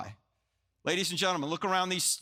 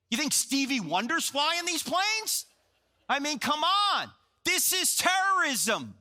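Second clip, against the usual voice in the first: indignant retort; 5 semitones higher than usual. Retold or imitated. Yelling at CNN commentator.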